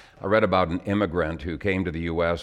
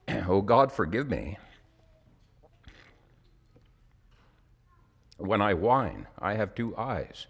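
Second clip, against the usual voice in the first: emotional. Real, not acted. Preacher moved by his own poem, getting emotional. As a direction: hold back tears through the lines. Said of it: "the reason I get emotional".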